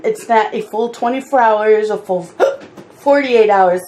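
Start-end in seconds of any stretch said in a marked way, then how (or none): 1.9-3.8 hiccup breaking the sentence; talking through sudden hiccups. Real, not acted. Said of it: "sorry, I got the hiccups".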